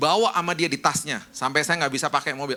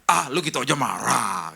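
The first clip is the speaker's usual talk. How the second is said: slow, laughing dismissal; laughing brush-off; 4 semitones lower, slower than usual. Retold or imitated. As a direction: laugh it off lightly. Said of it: "Tahu nggak orang intim jawabannya apa?".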